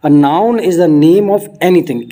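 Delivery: very slow, word-by-word definition reading; dictation pace. Shown as a demonstration. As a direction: spell it out slowly for students to copy. Reads definition slowly. (धीरे-धीरे लिखवाने वाले अंदाज़ में)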